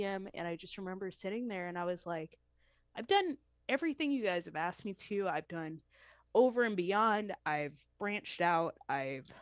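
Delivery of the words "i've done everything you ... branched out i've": holding back tears mid-sentence; getting emotional. Real, not acted. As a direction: voice fading as emotion rises. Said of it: "sorry, I'm getting emotional about it".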